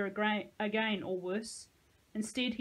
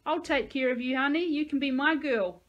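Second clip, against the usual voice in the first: sleazy sweet talk; 5 semitones higher, 7 dB louder than usual. Acted. Thug sweet-talking a girl.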